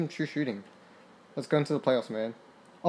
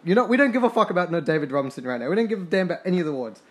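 1 fast defiant dismissal; 2 semitones higher, faster than usual. Real, not acted. Dismissing rival's MVP award.

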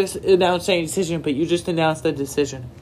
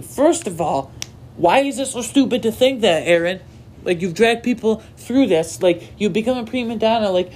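exasperated rant; 4 semitones higher than usual. Real, not acted. Ranting at Aaron Rodgers' comments.

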